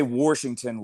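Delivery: Washington with an R, as "Warshington"; West Virginian pronunciation. Retold or imitated. Teasing West Virginians to friends, Washington said as "Warshington". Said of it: "like, uh, West Virginians do".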